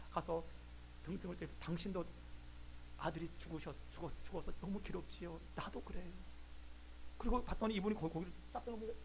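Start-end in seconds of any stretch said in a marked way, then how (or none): 1.6-6.1 soft, lowered voice of sympathy; gentle consoling. Retold or imitated. Professor comforts a bereaved stranger, gentle consoling. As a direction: console quietly, as a fellow mourner.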